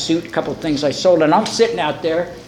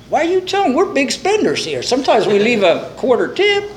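higher-pitched mock indignation; indignant; 5 semitones higher than usual. Drinker answering the bartender who suggests AA, mock indignant. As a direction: protest as if mildly offended.

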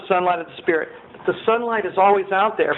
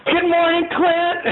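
cheery wake-up greeting; 11 semitones higher than usual. Retold or imitated. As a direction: greet him like the happiest man alive. Cheery greeting at dawn door.

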